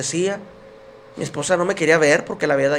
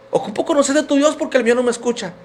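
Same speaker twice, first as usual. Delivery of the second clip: higher-pitched desperate appeal, retold; imploring, raised-voice retelling of a cry for help; tearful plea; 5 semitones higher than usual. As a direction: plead as if through tears. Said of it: "yo llorando le dije".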